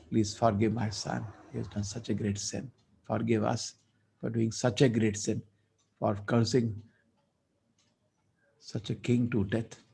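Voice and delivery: soft, pleading; a father begging the Lord to forgive his son; humble prayer. Acted. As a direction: pray quietly for forgiveness. Father praying to Narayana.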